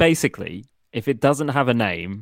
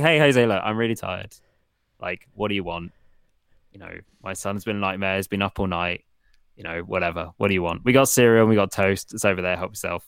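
tired host; 3 semitones lower than usual. Retold or imitated. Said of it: "It's like".

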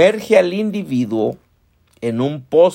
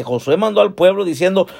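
ordinary talk

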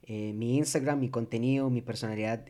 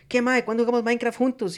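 higher pushy fan voice; pushy stranger in chat, teasing; mock fan; 8 semitones higher, 4 dB louder than usual. (imitando a un fan insistente)

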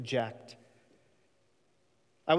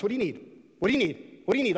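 mock eager genie; 4 semitones higher, faster than usual. Preacher mocking a genie-like God, eager and building. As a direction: play the fawning genie, climbing.

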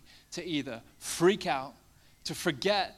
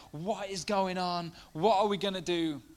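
panicked disciples; 5 semitones higher, 3 dB louder than usual. Retold or imitated. Disciples in the storm freaking out, mock panic. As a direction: sound like the boat is sinking. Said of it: "they start freaking out".

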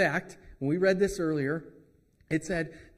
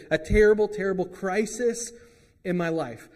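louder, rising cry on terrible; anguished outcry; 3 semitones higher, 6 dB louder than usual. Retold or imitated. A struggling listener voicing life falling apart, loud and anguished. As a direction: blurt out the crisis in distress. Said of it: "Maybe you feel like".

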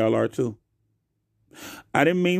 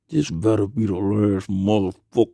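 tight-lipped mad parent; 5 semitones lower than usual. Retold or imitated. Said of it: "y'all know how your lips get tight when you mad".

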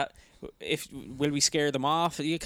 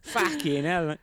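high, slow, loud mock insult; character voice; 8 semitones higher, 8 dB louder, much slower than usual. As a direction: snap it out in a put-on high voice. Continues character voice.

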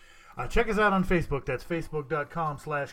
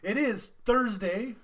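excited greeting; 8 semitones higher, 3 dB louder than usual. Real, not acted. Hyped show greeting.

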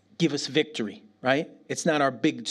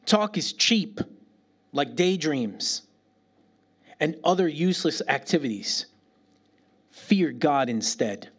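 scripture reading. Shown as a demonstration. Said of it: "Ecclesiastes five seven".

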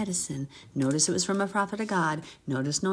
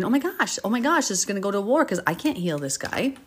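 mock panic, higher and louder; freaking out; 3 semitones higher, 3 dB louder than usual. King of Israel freaking out about healing Naaman. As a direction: fret it out like someone losing it. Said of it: "panicked, freaking out".

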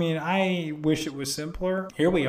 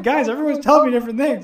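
exasperated plea; 8 semitones higher, 7 dB louder, faster than usual. Real, not acted. Overwhelmed by conflicting advice.

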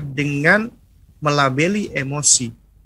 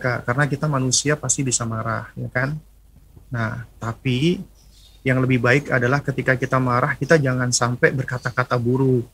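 calm reassurance; 3 semitones lower than usual. Retold or imitated. Mother calmly advising angry child.

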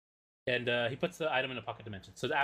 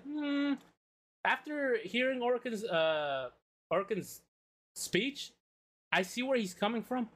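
pompous arbiter voice; 8 semitones higher, slower than usual. Retold or imitated. Different arbiter voiced in retelling.

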